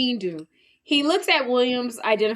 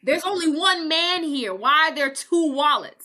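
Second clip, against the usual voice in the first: mock disbelief; 6 semitones higher than usual. Dean baffled by second wallet.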